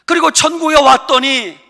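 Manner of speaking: high, loud crying complaint; hammed-up grandpa crying out in frustration; aggrieved old man shouting. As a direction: wail that he came too late. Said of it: "할아버지가 이러는 거예요".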